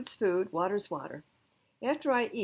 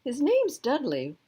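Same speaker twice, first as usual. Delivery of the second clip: higher and louder, name's stressed; firm father correction; 7 semitones higher, 8 dB louder than usual. Acted. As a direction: set the record straight.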